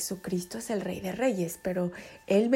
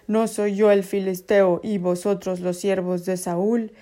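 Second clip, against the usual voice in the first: taunting giant; 4 dB louder than usual. Acted. Goliath's challenge read as quote.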